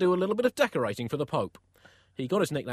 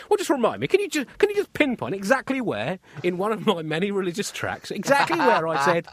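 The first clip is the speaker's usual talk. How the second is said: angry Allah; 5 semitones higher than usual. Acted. Allah interrogating a failed bomber at judgement, exasperated. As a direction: hammer out an indignant telling-off. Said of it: "picture the angry-looking Allah with his clipboard".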